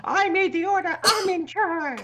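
high, loud playful boast; mock bossy. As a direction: lord it over them jokingly. Teasing boast about speaking order.

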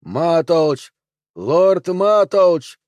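high, loud call of a name; crying out. A narrator's reading. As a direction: call someone from afar, drawing the name out. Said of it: "кричавший".

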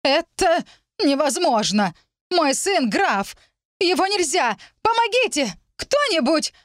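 истеричные причитания свекрови, очень высоко; голоси протяжно, всё выше, зови на помощь; Элеонора де Рейланд. A narrator's reading. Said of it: "дурниной заголосила Элеонора де Рейланд". (заполошный высокий вопль о помощи)

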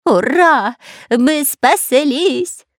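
high, slow happy cheer; joyful cheer. A narrator's reading. Spy cheering after escaping the snakes, joyful. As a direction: shout it out with relief. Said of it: "радовался Дырка".

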